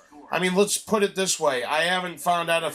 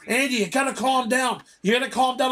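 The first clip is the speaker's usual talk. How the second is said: pitched-up urgent mock yell; retold screaming; 5 semitones higher than usual. Manager running down the hallway to him, retold mock yell. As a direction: imitate someone yelling down a hallway.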